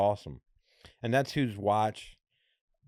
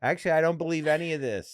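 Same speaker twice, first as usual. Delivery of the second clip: laughing joke; 7 semitones higher, 5 dB louder, faster than usual. Real, not acted. Joking aside, laughing.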